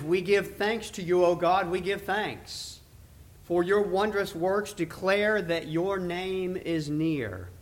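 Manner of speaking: solemn, measured Bible reading with swelling calls of O Lord; scripture reading. Acted. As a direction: read the psalm like a prayer from the pulpit. Reads Psalm seventy-five aloud.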